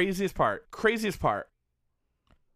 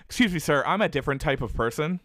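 mock prim version; faster than usual.

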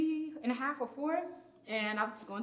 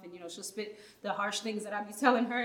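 ordinary talk

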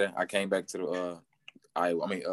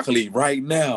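higher-pitched, laughing eagerness; eager reply; 6 semitones higher, 4 dB louder than usual. Retold or imitated. Player answering the team's call to come back, eager. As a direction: jump at the offer with a laugh.

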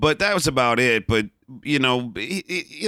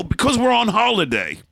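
bad British accent; 8 semitones higher than usual. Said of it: "this bad British accent".

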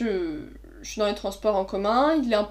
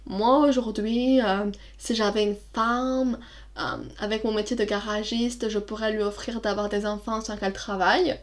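put-on Spanish accent; 4 dB quieter than usual. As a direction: drag it out like a tipsy Spanish guy. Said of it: "il avait un accent espagnol".

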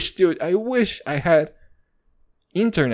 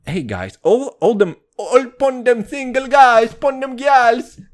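loud, hammed-up patois lyric; mock Jamaican patois; 7 semitones higher, 6 dB louder than usual. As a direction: drop the line like a dancehall toaster. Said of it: "I'ma drop that shit on you".

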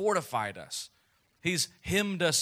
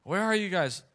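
playful seeking call; 6 semitones higher than usual. Retold or imitated. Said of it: "I like".

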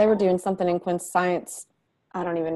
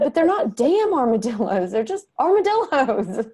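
gently correcting mom; 6 semitones higher, 4 dB louder than usual. Retold or imitated. Mom correcting her son.

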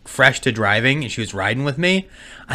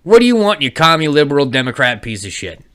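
mock insult; 3 semitones higher than usual. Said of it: "I did that".

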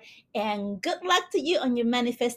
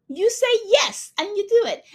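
emphatic yes; 6 semitones higher, 6 dB louder than usual. Real, not acted. Urging listener to say yes.

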